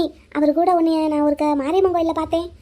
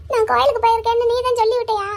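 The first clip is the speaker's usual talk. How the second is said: upset, tearful question; on the edge of crying; 3 semitones higher than usual. Acted. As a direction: ask it through tears. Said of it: "எதுக்கு இங்க உட்காந்து அழுதுகிட்டு இருக்க".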